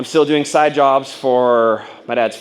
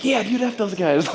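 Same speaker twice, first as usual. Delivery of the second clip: getting mad; 10 semitones higher than usual. Retold or imitated. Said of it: "started to react and get mad".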